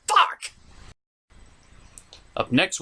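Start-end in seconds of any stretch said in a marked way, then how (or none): 0.1-0.5 frustrated shout. Real, not acted. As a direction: blurt it out, annoyed at yourself. Frustrated at own slip, cutting.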